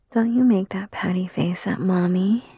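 normal talking voice

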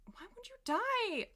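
high, loud squeal of dismay; distressed squeal. Real, not acted. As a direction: wail at the dead bug. Bug dies on laptop.

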